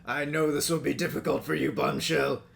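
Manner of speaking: mild Megatron impression rising on think; Megatron quote. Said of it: "here's the one I mentioned earlier, Megatron".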